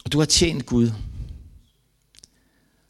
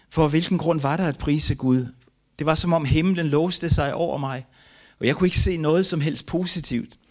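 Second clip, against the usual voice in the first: raised pitch, despairing protest; anguished questioning; 5 semitones higher than usual. Retold or imitated. Father reading his memoir of grief, anguished questioning. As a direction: recount the despair in a higher voice.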